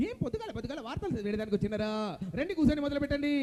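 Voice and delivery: lightly hammed-up gruff radio boss; Jayaprakash Reddy impression. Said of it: "Jayaprakash Reddy గారు".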